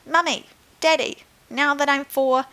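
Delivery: put-on high, eager child's plea; excited child. Girl asking her parents for a dinosaur, high and eager. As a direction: beg like an excited four-year-old. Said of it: "Eliza Jane cried".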